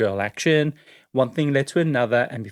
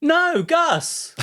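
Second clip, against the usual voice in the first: laughing insistence; 3 dB louder than usual. Real, not acted. Insisting on the name.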